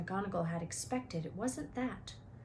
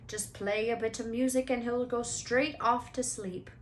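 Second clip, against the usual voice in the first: a hint of big friendly gamekeeper, cheerful; lightly voiced jolly giant offering a drink; Hagrid's voice; 3 semitones higher than usual. Hagrid's voice beside narration.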